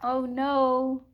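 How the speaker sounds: lightly voiced chick in dismay. A narrator's reading. Chick has dropped the rose.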